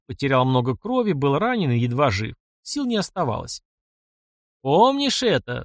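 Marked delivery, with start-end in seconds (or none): 4.6-5.6 higher, slowed howl of a question. A narrator's reading. Bulksu taunts the captive knight, slow raised howl. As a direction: draw it out, vengeful. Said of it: "завыл Булксу".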